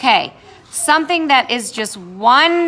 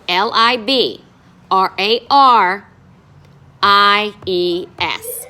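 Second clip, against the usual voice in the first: letters spelled slowly, one by one; slow spelling out; slower than usual. Shown as a demonstration. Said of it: "So it will be spelled".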